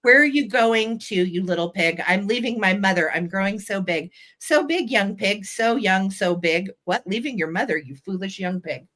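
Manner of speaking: lilting verse with lightly acted question and answer; nursery rhyme reading. A narrator's reading. Seller reads piggy rhyme to viewers, nursery rhyme reading. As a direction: read the little pig's exchange in a bouncy rhythm.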